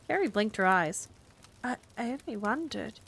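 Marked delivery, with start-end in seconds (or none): 1.6-3.0 soft, hesitant little voice; timid. A narrator's reading. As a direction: shrink back, barely daring. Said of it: "she said timidly".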